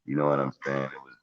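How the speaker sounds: muffled mic, voice sounds far back; like talking from behind a wall. Real, not acted. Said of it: "muffled a little bit".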